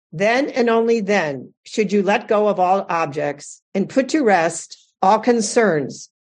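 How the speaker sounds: slow, measured reading of a teaching; solemn reading aloud. Real, not acted. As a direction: read it out phrase by phrase, with weighty pauses. I'm gonna read it to you.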